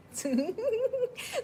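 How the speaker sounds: high-pitched giggle. Real, not acted. Speaker jokes that God has live witnesses, high giggle. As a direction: break into a high little laugh.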